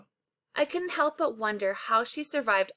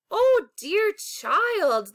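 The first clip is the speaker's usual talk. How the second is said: comforting voice; 7 semitones higher, 5 dB louder, much slower than usual. A narrator's reading. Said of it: "in a comforting voice".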